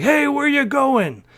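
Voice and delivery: high, slow mock demand; challenging "where you going"; mock challenge. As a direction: play the pushy clerk stopping him. Clerk confronting him in lobby.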